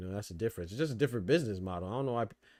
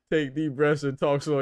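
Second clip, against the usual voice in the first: quoting friend; 3 semitones higher, 5 dB louder than usual. Retold or imitated. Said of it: "that's what you said".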